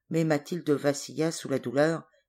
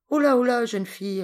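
amused, much higher and louder; laughing; 8 semitones higher, 7 dB louder than usual. A narrator's reading. Woman calms the agitated girl, laughing. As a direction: laugh her down gently. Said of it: "répondit la femme en riant".

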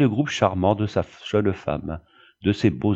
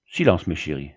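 lower-pitched, understated reprimand; stern; 5 semitones lower than usual. Acted. Pastor silences his complaining children, stern. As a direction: hush them with mild severity. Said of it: "dit sévèrement le pasteur".

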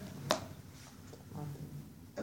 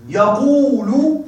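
drawn-out prompt; 3 semitones higher, much slower than usual. Shown as a demonstration. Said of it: "ها،".

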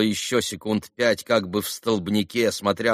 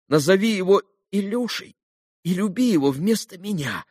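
tender dying plea; 8 semitones higher than usual. A narrator's reading. Dying boy comforts father.

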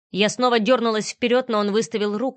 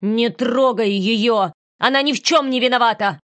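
mother shielding her daughter from Artyom, furious; furious protest; 3 semitones higher, 5 dB louder than usual. Acted. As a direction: stand up to him in rage. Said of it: "волна ярости".

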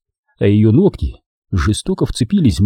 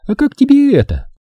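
put-on higher young woman's voice, teasing; Дженни. A narrator's reading. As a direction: play the girlfriend, sweet and teasing. Jenny voiced. (нежная игривая Дженни)

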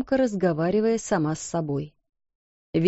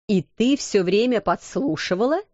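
indignant. Acted. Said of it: "возмутилась мисс Минчин".

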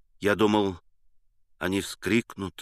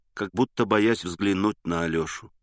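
usual speaking voice

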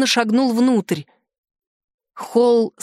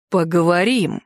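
low, ominously calm promise; too calm; 5 semitones lower than usual. Acted. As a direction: menace hidden under calm. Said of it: "Спокойно, слишком спокойно произнёс князь". (зловеще спокойно, низко)

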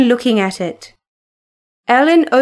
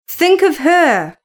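higher, sharp command; sharply; 5 semitones higher than usual. A narrator's reading. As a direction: snap it out sharply. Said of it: "he said sharply".

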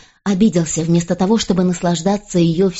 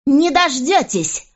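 much higher, slow defiance; defiant; 7 semitones higher, slower than usual. A narrator's reading. Queen refusing the king before storming off, high and slow. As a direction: fling it at him slowly.

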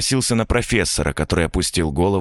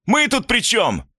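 much higher, slow, pleading; panicked plea; slower than usual. A narrator's reading. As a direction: wail the question. Students pleading in horror.

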